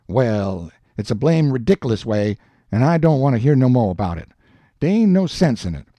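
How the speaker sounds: lightly voiced Jim in dialect, huffy; Jim, exasperated. Jim refusing Huck's explanation, lightly voiced and huffy. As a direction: dismiss it with mild exasperation.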